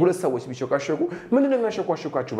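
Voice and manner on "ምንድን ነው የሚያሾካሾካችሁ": demo question. Shown as a demonstration. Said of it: "በላቸው እስኪ".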